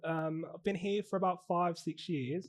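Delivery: casual put-on Aussie accent; Australian accent. Teaching assistant asking recruiter about fostering, Australian accent. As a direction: play an Australian making an enquiry. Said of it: "I'm actually from Australia".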